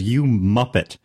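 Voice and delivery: imitating a British insult, lightly; mild imitation of British speech; British accent. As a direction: quote a Brit with a slight accent. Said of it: "I heard a British person".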